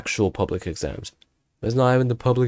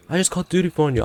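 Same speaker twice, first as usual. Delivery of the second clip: high-pitched imitation of a teacher; teacher announcing; 9 semitones higher, faster than usual. Voices teacher announcing the call.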